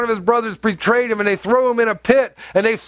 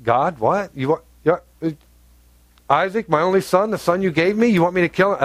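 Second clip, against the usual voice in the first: shocked Abraham; 2 semitones lower than usual. Retold or imitated. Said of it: "Abraham responds to God".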